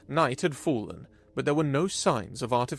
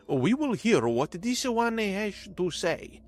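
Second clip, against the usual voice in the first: formal alien ruling; 6 semitones higher than usual. A narrator's reading. Ahar formal alien pronouncement.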